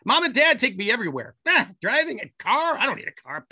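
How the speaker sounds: high, whiny teen voice, mocking. Parent imitating a spoiled teen who won't drive, whiny and high. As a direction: sneer it like a spoiled kid who never drives.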